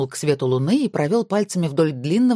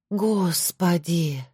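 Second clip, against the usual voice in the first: very slow, drawn-out sigh of a word; lightly borrow a friend's weary tone; Tomka's intonation; much slower than usual. Acted. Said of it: "сказала Зоя с Томкиной интонацией". (с Томкиной интонацией, протяжно)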